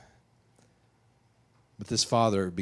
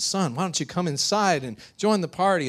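raised, gently coaxing invitation; inviting father; 7 semitones higher than usual. Acted. Father inviting his older son inside, coaxing. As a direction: coax him in kindly. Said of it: "his father comes from outside the party".

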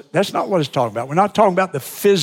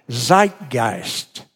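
German accent; 5 semitones lower than usual. Shown as a demonstration. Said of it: "excuse my German, uh, accent here".

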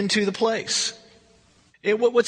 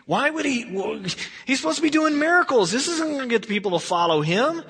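higher-pitched, protesting bafflement; baffled, raised-pitch objection; perplexed disciple; 4 semitones higher than usual. Acted. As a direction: question it in puzzled disbelief. Baffled disciples voiced in the story.

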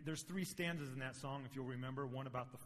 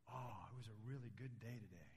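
daughter voicing the bear; 3 semitones lower, 6 dB quieter than usual. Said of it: "being the voice of Mister Polar Bear".

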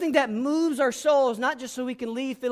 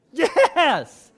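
excited yes; 7 semitones higher, 7 dB louder than usual. Real, not acted. Exclaiming approval after the quote.

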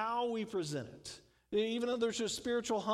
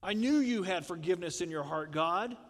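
grumbling Jonah. Retold or imitated. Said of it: "But Jonah goes".

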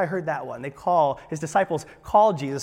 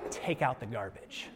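stern parent order; 7 semitones lower, 14 dB quieter than usual. Retold or imitated. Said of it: "let me rephrase that".

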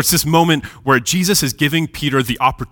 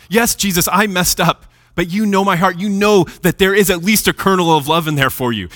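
higher-pitched earnest plea; pleading confession; 5 semitones higher than usual. Acted. Sinner confesses to God and Jesus, pleading. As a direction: confess and appeal to be understood.

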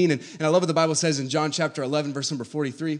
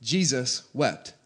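very slow, each word given its own weight; slow and weighty; 2 semitones lower, much slower than usual. Shown as a demonstration. Pastor asking the church to ponder the verse, slow and weighty. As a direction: let Jesus wept sink in slowly. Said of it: "But think about that for a second".

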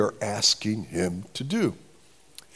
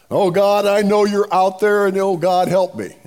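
louder, higher mock plea to God; mock pleading prayer; 4 semitones higher, 5 dB louder than usual. Preacher mimicking someone praying at random for help, mock pleading. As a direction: throw out a vague, urgent prayer.

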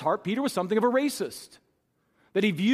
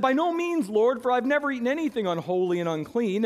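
Peter's refusal, pitched well up and pressing; Peter protesting; 6 semitones higher than usual. Acted. Peter balking at the heavenly voice, high and insistent. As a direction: push back hard at the Lord, voice jumping high on no.

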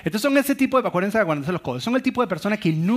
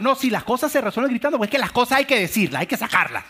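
mock yelling spouse; 5 semitones higher than usual. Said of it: "es el gritón".

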